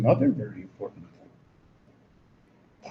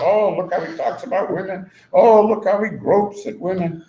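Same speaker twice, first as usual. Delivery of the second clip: mocking critics; 5 semitones higher than usual. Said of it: "all they have to talk about".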